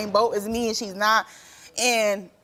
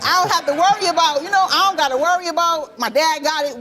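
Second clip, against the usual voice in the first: happy relief; 5 semitones higher, 4 dB louder than usual. Retold or imitated. Retold joy at Christmas money.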